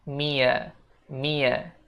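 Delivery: "me a" run together as "Mia"; linked "me a". Shown as a demonstration. Teacher shows how "me a" merges. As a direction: join "me a" into "Mia". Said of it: "Jadi kita ngomongnya".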